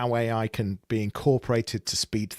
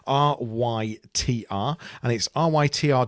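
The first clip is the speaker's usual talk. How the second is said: spelled out. Real, not acted. Spelling out the app's name.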